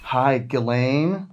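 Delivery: soft and slow, intimate; soft phone voice. Acted. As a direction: murmur it like a secret late-night call. Calling the prostitute on phone.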